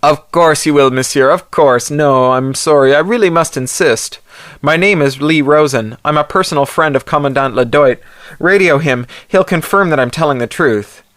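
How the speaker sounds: insist, voice tight with nerves; nervous insistence. Acted. Insisting to armored soldier.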